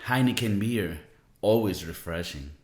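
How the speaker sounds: low, casual slogan read; half-joking pitch for a hoped-for sponsor; mock ad read. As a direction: try out a beer tagline like a commercial. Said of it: "I'm just, like, rehearsing".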